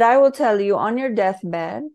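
voicing the author with a light Brazilian accent. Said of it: "I'm doing a Brazilian accent".

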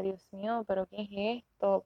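a worn-out mother's sigh of disbelief; mild retold exasperation; exasperated. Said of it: "que yo decía".

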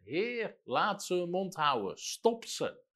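high-pitched mock cry to God; calling out in prayer. Preacher retells an evangelist interrupting faithless prayers, calling out. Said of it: "begint te roepen".

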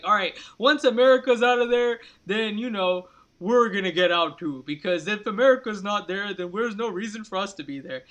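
hammed-up mock British-French accent, loud at the start; a jokey fake British and French accent, mocking the allies. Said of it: "That's my fake British and French voice".

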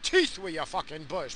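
high mock eager voice of a desperate guy; lightly hammed-up desperate man. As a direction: play a guy who'll take anything. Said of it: "they're just like".

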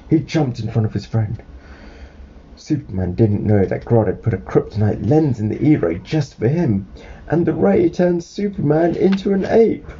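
lively read-aloud, rising at the twist; storybook narration. Acted. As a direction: tell a child the surprise turn. Reads a storybook to child.

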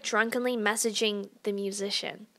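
whispered confession. Real, not acted. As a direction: drop to a whisper. Confessing embarrassing detail.

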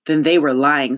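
mildly fierce accusation, firmly voiced. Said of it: "said Cass fiercely".

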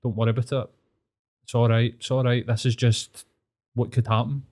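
soothing inner voice. Retold or imitated. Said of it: "a voice kept on being like".

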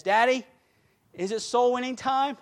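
lightly voiced little girl asking Daddy; imitated little daughter. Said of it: "she comes up to me and she says".

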